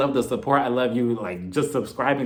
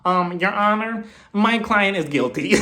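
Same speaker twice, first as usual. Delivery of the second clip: mock lawyer voice; 4 semitones higher, slower than usual. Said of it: "she'll probably be like".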